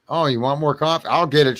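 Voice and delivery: mock stepmom offer. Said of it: "she said".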